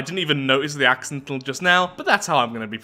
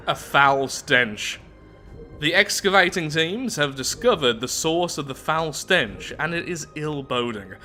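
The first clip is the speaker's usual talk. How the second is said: measured read-aloud narrator voice; story narration; 2 semitones higher than usual. Acted. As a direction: read the lore out evenly, like an audiobook. Reads game event text.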